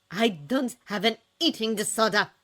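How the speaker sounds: a mild yell. A narrator's reading. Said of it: "yelled Jack".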